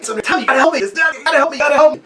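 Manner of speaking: high, rising mock panic; panicked plea. Boy begging his brother for help, high and panicky. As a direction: beg for help like a chipmunk is in your sleeve. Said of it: "I got my whole, like".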